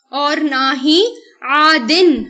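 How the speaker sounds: اور نہ ہی عادن recited slowly; slow Arabic recitation. Shown as a demonstration. Teacher to students, slowly reciting عادن. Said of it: "حد سے بڑھنے والا".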